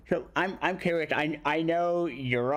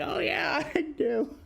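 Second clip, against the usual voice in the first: mock fangirl gush; 14 semitones higher than usual. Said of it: "we were like".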